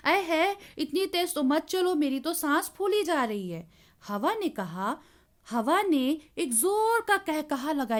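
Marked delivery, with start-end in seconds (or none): 0.1-3.7 scared plea. Acted. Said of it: "पतंग डर के बोली".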